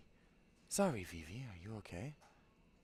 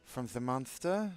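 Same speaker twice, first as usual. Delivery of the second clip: put-on Castellano Spanish accent; 2 semitones higher, 4 dB louder than usual. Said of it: "give her something like a Castellano".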